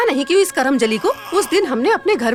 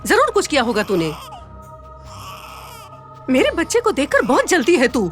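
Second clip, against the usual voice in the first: angry scolding; 3 semitones higher than usual. Acted. Mother keeps scolding the girl.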